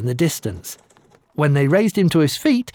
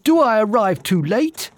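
thundering voice; 7 semitones higher than usual. Acted. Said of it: "in a voice of thunder".

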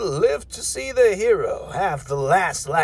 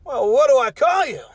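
exasperated shout; 5 semitones higher, faster than usual. Acted. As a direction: blurt it out in frustration. Host loses patience with the guest.

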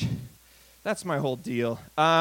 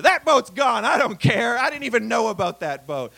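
louder, smug tycoon boasting; mock rich braggart; 4 dB louder than usual. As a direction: brag about your boats like you couldn't care less. Rich guy bragging about boats.

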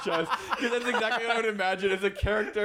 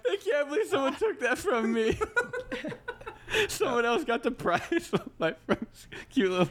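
half-laughing, higher mock-heartbroken complaint; tearful laughing; 6 semitones higher than usual. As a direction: play the loss through tears of laughter. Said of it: "He is crying".

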